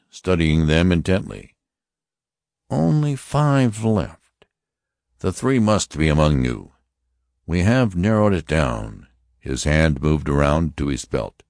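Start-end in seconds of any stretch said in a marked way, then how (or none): 2.7-9.1 high, stern voice of an alien officer; Martian officer. Acted. Martian officer warning the passengers, stern and high. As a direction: announce it like a cold interrogator. Lighter addresses last five.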